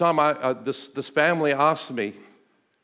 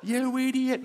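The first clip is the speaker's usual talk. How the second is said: God's voice; 6 semitones higher, 6 dB quieter than usual. Retold or imitated. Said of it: "And God's going".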